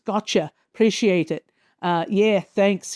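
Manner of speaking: lightly put-on Australian accent. Reading out the Australian villain's catchphrases, lightly Australian accent. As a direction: read it with a hint of an Australian accent. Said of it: "he's got his accent".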